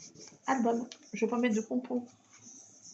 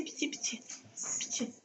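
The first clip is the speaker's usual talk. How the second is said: soft whispered pitié, pitié; breathless whispered begging; whispered plea; 8 dB quieter than usual. Real, not acted. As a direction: beg under your breath. Whispered pleading to the cat.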